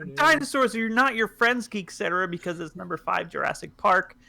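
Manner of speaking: lightly rapped, high and punchy; mock rap the line; rapper voice. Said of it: "I can do a rapper".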